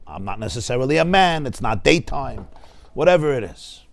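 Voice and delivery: lightly voiced know-it-all, slowed down; mock sophisticated doubt. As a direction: play the clever academic who questions the obvious. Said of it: "If you're educated".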